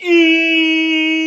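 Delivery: high, loud, drawn-out squeal; mock crying wail. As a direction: imitate a crybaby with one long shrill "Ee". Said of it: "he cries to his mommy".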